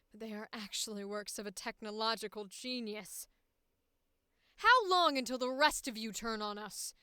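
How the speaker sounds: a hint of a vindictive woman, near plain; steady cold woman, mostly in her own voice; normal woman voice. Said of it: "a probably normal voice".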